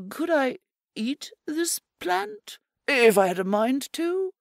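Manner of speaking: high, sweet-voiced rabbit promising eagerly; a keen little rabbit swearing he'll plant it; eager rabbit Pickett. Pickett the rabbit promising Errol, eager little rabbit voice.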